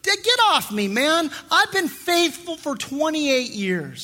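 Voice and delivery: a brushed-off high yelp of annoyance; mock indignant outburst. Pastor playing a defensive husband, mock indignant outburst. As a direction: snap back as if caught out. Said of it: "my attitude towards you was".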